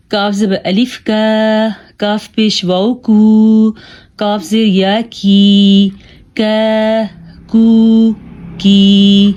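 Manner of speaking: کاف light and thin, long vowels held; thin kaf. Shown as a demonstration. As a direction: keep کاف light, drawing out کا، کو، کی. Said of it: "یہ باریک کاف ہے". (باریک کاف، کھینچ کر)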